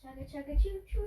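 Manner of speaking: playful train chant rising at the end; chugging toy train voice. Pretend. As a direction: sing out the choo-choo like a toy train. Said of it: "It's like a train".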